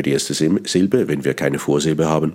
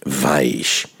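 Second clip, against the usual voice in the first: "weich" breathed in a whisper; flüsternd weich; whispered soft; 2 semitones lower than usual. Shown as a demonstration. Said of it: "die deutsche Sprache weich".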